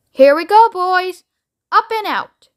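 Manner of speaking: high, loud, thrilled; gleeful launch. Acted. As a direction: announce the big moment. Wonka launching through roof.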